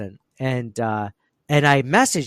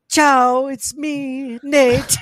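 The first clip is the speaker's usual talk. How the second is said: much higher, loud hammed-up Italian accent; Mario Kart Italian; 13 semitones higher, 7 dB louder, much slower than usual. Mocking the listener as an over-the-top Italian. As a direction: ham up a cartoon Italian plumber. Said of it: "the Mario from Mario Kart".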